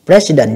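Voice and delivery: President with the first syllable stressed. Shown as a demonstration. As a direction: lean on the opening syllable of President. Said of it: "nhấn âm đầu".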